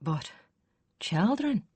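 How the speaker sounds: put-on hesitant, questioning children; doubtful. A narrator's reading. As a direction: let the doubt hang on children. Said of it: "Hiron said doubtfully".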